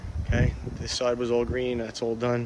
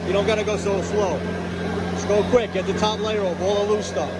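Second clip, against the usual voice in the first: yelling over leaf blower. Real, not acted. Sorry about the blower.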